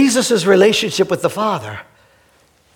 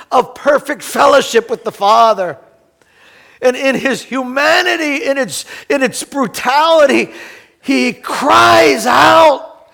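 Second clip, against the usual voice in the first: rising preaching. Acted. Pastor to congregation, rising preaching. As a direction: build toward the cry.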